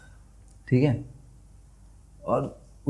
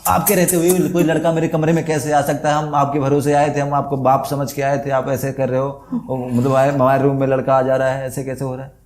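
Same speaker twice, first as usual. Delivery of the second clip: mock scolding boss; 2 semitones higher than usual. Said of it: "gate पे पहुंचा".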